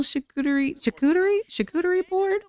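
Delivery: high, questioning tries at a hard word; unsure word attempts. Real, not acted. Player stumbling over "charcuterie" on a picnic date, unsure and high. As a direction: trip over the word, pitch climbing.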